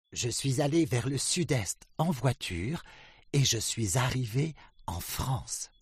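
high, loud proud duck voice; Drake the duck. A narrator's reading. Drake tells the ducks of France, high and loud. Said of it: "said Drake".

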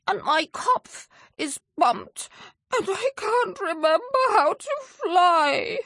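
high, loud, upset dragon voice; a bumped, near-tearful little dragon; young dragon. Acted. Dragon tells his crash.

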